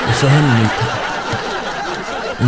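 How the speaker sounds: slow, breathy words through laughter; laughing whisper. Real, not acted. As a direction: squeeze the line out while laughing. Punchline breaking into laughter.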